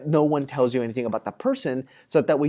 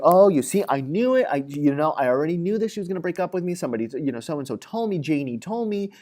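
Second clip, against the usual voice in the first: freaking out. Retold or imitated. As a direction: play Billy spiralling into anxious certainty, fast. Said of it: "So now Billy's freaking out".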